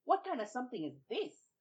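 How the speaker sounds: high, loud, offended demand; a vexed man insulted by silence; indignant Babuki. Acted. Babuki, snubbed by the tar baby, indignant and loud. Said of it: "he said".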